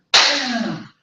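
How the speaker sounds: high, falling "bam"; crash noise. A narrator's reading. Storyteller voices the bird hitting a wall, high exclamation.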